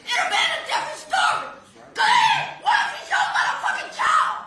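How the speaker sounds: ragged crying fury, spat-out curses; enraged yelling. Real, not acted. Mother curses the defendant across the courtroom, sobbing fury. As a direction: threaten him while sobbing and shaking with rage.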